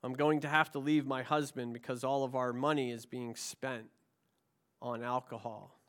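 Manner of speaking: low, softened retold plea; subdued pleading. Wife praying aloud about her drinking husband, a subdued plea. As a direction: plead quietly, with understatement. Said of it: "She pleaded".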